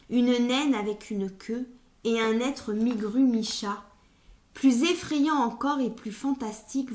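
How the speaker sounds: expressive, carefully articulated storytelling; measured poetic narration with strong phrase openings; dramatic literary reading. Acted. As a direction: read the tale with vivid emphasis on each image. Reads a poem aloud.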